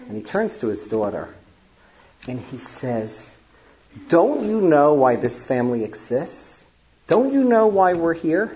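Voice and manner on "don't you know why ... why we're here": imitating an indignant, higher-pitched challenge; furious grandfather. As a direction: retell a grandfather's angry confrontation, voice rising. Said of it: "he immediately gets furious".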